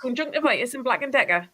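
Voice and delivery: Conjunctivitis and Black and Decker in a light Geordie accent; a hint of Geordie on Black and Decker; lightly Geordie Conjunctivitis; Geordie words. Shown as a demonstration. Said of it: "I can do the odd word in Geordie".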